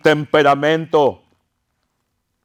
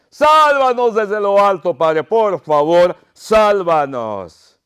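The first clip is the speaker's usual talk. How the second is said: pleading call, starting high and easing down; plea that fades into a drawn-out entreaty; plea for help; 3 semitones higher, slower than usual. Acted. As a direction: implore from the pulpit, slowing as it falls. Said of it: "gritaba por ayuda".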